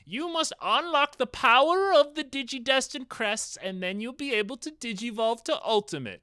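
put-on high, grand old sage; wise old man voice. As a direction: proclaim it like a mystic elder. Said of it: "he's like".

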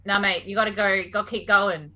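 attempted Aussie Ocker that drifts British; Ocker slipping British. Shown as a demonstration. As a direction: drop the T's in a wobbly Ocker accent. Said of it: "it just sounds British again".

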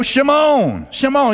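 high-pitched call with a long, falling tail; playful calling out. Retold or imitated. Jesus calls Peter out onto the water, playful high call. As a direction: sing it out like a comic beckoning.

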